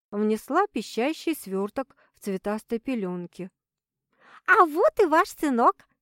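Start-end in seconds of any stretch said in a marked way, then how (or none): 4.5-5.9 high chirpy nurse voice; cartoon princess. A narrator's reading. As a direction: chirp it out happily. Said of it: "радостно прощебетала она".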